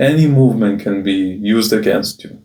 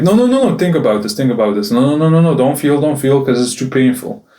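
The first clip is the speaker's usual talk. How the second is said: high, urgent inner voice; the panicked brain talking him down; a frantic inner plea, starting high; inner voice pleading; 3 semitones higher, faster than usual. Retold or imitated. Inner voice of his brain, quoted.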